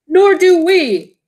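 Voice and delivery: loud high slow group reply; chorused. Acted. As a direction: answer together as the knights. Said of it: "chorused the knights".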